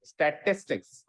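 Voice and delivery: स्टैटिस्टिक्स said together in one go; स्टैटिस्टिक्स spoken whole after the drill. Shown as a demonstration. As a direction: join it up into one clean word. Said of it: "एक बार और बोलो".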